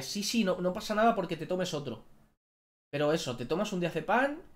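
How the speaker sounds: imitated breezy dismissal. Clinic worker telling patient another pill is fine, breezy dismissal. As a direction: pitch it up and wave the worry away.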